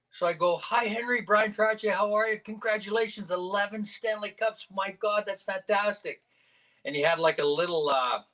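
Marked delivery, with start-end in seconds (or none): 0.6-6.2 higher-pitched, excited fan greeting; gushing greeting. Retold or imitated. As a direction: re-enact congratulating a hockey great. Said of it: "I gotta go say hello".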